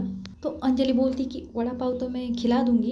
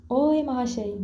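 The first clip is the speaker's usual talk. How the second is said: a mild call-out, barely raised; 3 semitones higher, slower than usual. Acted. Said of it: "मतलब उसकी आवाज़ बहुत तेज़ है".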